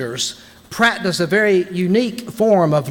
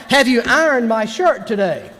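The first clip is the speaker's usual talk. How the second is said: a higher, raised call across the house; shout; 6 semitones higher than usual. Shown as a demonstration. Husband shouts a shirt question across the house. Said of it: "I can even shout".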